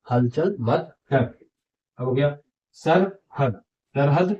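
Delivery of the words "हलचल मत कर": हलचल मत कर repeated slowly with a slight rise on कर; slow repeat ending up; slow reading demo. Shown as a demonstration. (धीरे दोहराना, कर पर सुर ऊपर)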